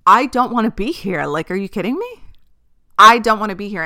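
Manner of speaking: loud, pleading complaint; exasperated outburst. Retold or imitated. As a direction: blurt it out, fed up. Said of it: "And I'm just like".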